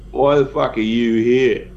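slow, forceful, clipped demand. Acted. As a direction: lean in and make each word land. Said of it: "and forcefully says".

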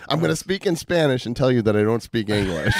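cracking up at his own traffic stop story, high laughing shout; laughing hard. Retold or imitated. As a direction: crack up while saying it. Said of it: "That's what came out".

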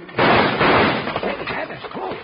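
high alarmed yell; startled shout. Acted. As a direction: yelp as a bullet whizzes by. Shot at in the dark.

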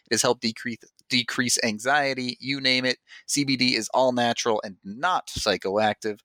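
smooth, even sponsor read; host-read promo for a coffee brand; podcast ad read. Acted. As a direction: read the sponsor copy to listeners. Reads a sponsor ad.

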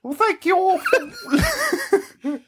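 very high, laughing witchy sign-off; botched Irish accent that sounds like a witch. Pretend. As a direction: cackle the thanks like a witch. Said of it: "is that Irish?".

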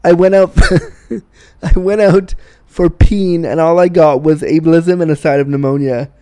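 punchy joke slogan. Shown as a demonstration. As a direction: announce it like a proud shirt print. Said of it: "a shirt that says".

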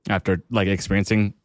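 hiccuping between words; with hiccups. Real, not acted. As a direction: talk through the hiccups. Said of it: "excuse me, I have the hiccups".

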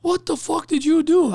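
slow, high-pitched, appalled question; aghast and drawn out; retold shocked demand. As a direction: act out an appalled coworker, spacing the words. Shocked cook questions him.

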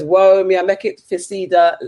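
slow, badly attempted Jamaican accent; terrible Jamaican accent. Host reading out a viewer's comment, in a bad Jamaican accent. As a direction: read it in a clumsy put-on Jamaican accent. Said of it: "terribly terrible Jamaican accent".

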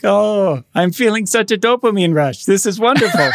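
high, loud, giddy mock delight; Suman's giddy voice. Friend imitates Suman cheering a goal in a high, loud voice. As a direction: play up a friend's goofy thrill at the score. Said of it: "he would be like".

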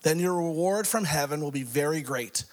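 measured, emphatic Bible reading; scripture reading. Acted. Preacher reading Luke six to congregation, emphatic delivery. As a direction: read it out with rising emphasis and pauses.

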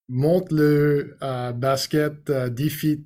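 halting Quebecois French, groping for the words; hesitant, improvised Quebecois accent; attempted Quebecois accent. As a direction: stumble through a mock Quebecois accent. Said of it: "in your best Quebecois accent".

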